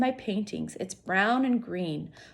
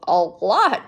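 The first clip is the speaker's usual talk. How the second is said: light laugh; 9 dB louder than usual. A narrator's reading. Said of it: "Julia says with a laugh".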